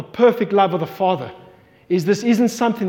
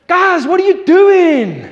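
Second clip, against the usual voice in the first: high, louder, slow, laughing fond father; God voiced, amused; 7 semitones higher, 5 dB louder, slower than usual. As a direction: shake your head laughing at your kids. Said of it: "he's like".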